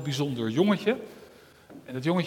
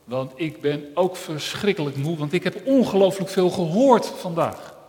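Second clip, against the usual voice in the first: ear character; 7 dB louder than usual. Acted. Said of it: "zei het oor".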